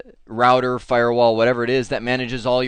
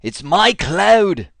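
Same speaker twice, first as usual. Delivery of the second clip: slow, louder, drawn-out mock Scottish war cry; mock Braveheart battle cry; 4 semitones higher, 6 dB louder, much slower than usual. Presenter parodies the Braveheart line for AWS, mock Scottish shout. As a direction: ham up a Braveheart Scottish rallying yell. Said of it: "it's actually from Braveheart".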